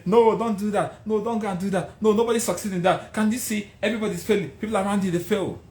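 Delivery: high insistent mock warning; discouraging naysayers. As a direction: imitate people talking you out of a dream. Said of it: "and they say".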